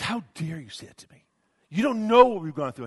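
rising to a shout; angry outburst. Retold or imitated. Wife shouting at the pastor, building to a yell. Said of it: "She goes".

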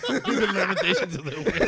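booming Austrian barbarian speech; Conan voice. Retold or imitated. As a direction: declaim like a warrior king.

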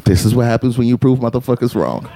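very low, even-pitched commentary; deadpan refrain. Real, not acted. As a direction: drop low and stay unbothered. Repeats refrain over opponent's protest.

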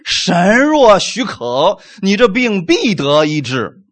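slow, drawn-out imitation of a conditional prayer; mock hedging prayer. Believer praying over the sick, mock noncommittal slow delivery. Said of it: "你不可能说一种模棱两可的话".

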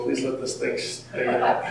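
whispered plea. Pretend. Imagined patient on stretcher.

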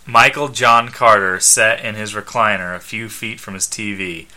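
measured read-aloud narration; story narration. A narrator's reading. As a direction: narrate the scene plainly, ends of sentences falling. Reads the comic story aloud.

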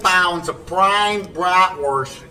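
Italian voice. Pretend. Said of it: "Johnny's bad Italian voice".

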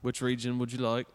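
put-on British accent offer; lightly imitated British accent. Shown as a demonstration. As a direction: ask in a mock British accent. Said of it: "that's kinda what that was".

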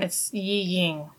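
Yi Ying said slowly; slow careful Yi Ying; Mandarin pronunciation. Shown as a demonstration. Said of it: "if you're saying it in Chinese".

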